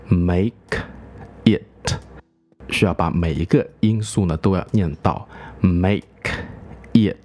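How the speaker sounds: "make" and "it" kept apart, each sound spoken; slowly, every sound of "make it"; slow motion. Shown as a demonstration. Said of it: "如果慢速来念呢".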